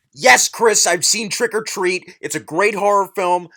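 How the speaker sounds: loud, irritated retort; exasperated shouting. Acted. Reader answering Chris about Trick or Treat, exasperated shout. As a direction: shout it back as if fed up.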